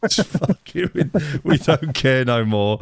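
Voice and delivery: lightly voiced weary politician; a hint of a fed-up politician; mock politician. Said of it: "imagine Rishi Sunak".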